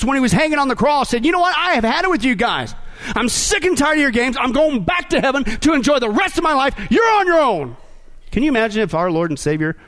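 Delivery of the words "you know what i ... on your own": higher, mock fed-up outburst; acted indignant walkout; Jesus. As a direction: quit on everyone in exasperation, voice pitched up. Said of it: "Can you imagine if Jesus".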